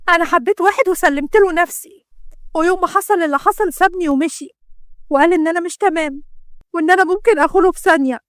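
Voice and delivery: distressed confession. Acted. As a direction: blurt out the painful truth. Defiant confession to her father.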